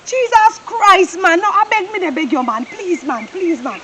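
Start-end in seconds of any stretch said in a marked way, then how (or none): 1.4-3.8 pleading softly. Acted. Man begging partner to calm down.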